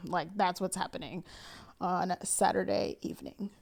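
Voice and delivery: loud, fast and insistent; firm declaration. Retold or imitated. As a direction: lay down the law. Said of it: "I'm like".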